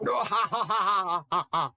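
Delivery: loud hearty laugh; belly-laugh it out. Acted. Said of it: "He was laughing".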